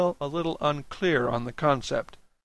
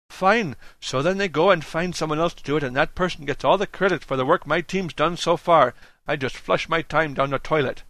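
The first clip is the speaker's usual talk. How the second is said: higher, irritated complaint; indignant objection; 4 semitones higher, 4 dB louder than usual. Acted. Unhappy worker objects to the plan, indignant. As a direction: grumble with rising exasperation.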